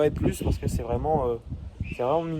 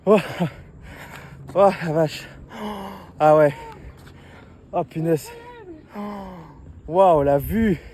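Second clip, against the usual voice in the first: awed; 4 semitones higher than usual. Real, not acted. Amazed at the lookout view.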